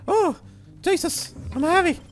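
high, breathless laugh through the words. Real, not acted. Gamer laughing at his own clumsy jump, high and giggly.

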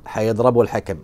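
lightly imitated Egyptian accent; Egyptian dialect. Retelling the commentator's line on protesting players, light Egyptian accent. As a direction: quote it with a touch of Egyptian. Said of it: "قال الحربان كلمة باللهجة المصرية".

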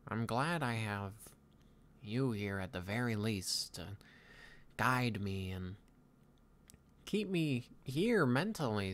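put-on pensive young Viking leader, halting delivery; lightly voiced Hiccup. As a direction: muse aloud with long pauses, lightly in character. Plays Hiccup in improvised roleplay.

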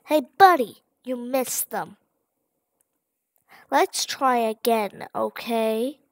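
lightly voiced friendly flower, chirpy; sweet-talking the player, a hint of sugary; cheery flower. Flower coaxing the player, lightly sugary.

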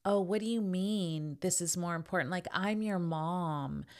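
guilt-tripping mom. Retold or imitated. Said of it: "makes you feel guilty".

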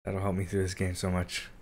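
talking while crunching chips. Real, not acted. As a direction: speak through a mouthful of chips. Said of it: "Sorry for the crunching".

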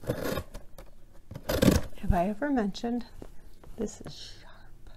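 whispered aside. Real, not acted. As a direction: breathe "this is sharp" like a secret. Whispered aside about knife.

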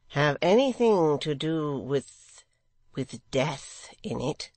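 slow, mildly coaxing secretary; slow down and ask it mildly; mildest tones. A narrator's reading. Secretary asking about death in it, mildest tones. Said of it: "in his mildest tones".

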